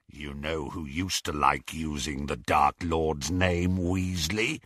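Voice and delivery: low menacing growl. Acted. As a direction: growl it as a threat. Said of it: "growled Greyback".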